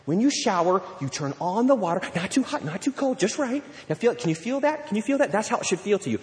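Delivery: mock-patient, step-by-step teaching; parent instructing son. Parent showing sixteen-year-old how to shower, mock-patient instruction. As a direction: coach it as if to a small child, pitch lifting. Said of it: "and you're like".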